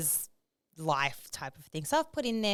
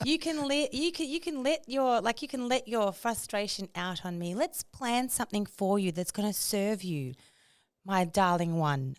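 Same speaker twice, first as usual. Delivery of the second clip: imagined chatbot voice. Acted. Chatbot comforting a stressed user, patronizing. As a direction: soothe her with syrupy concern. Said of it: "this is the voice that I'm imagining".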